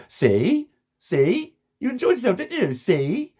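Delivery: high, loud, gloating sing-song; smug mock "see". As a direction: crow it like you've proved a point. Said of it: "people at the end going".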